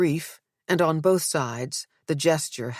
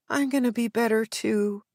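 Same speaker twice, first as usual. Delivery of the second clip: pointed wife; 7 semitones higher than usual. Acted. Nell answers Zeke.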